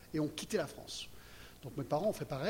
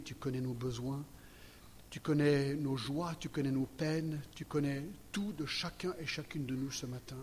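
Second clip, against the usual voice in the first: prayer. Acted. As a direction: pray gently before the word. Opening prayer before the sermon.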